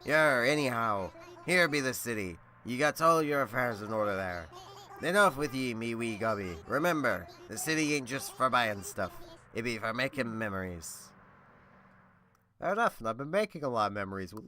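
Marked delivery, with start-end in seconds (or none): 0.0-11.1 pirate voice. Acted. Voicing a pirate villager.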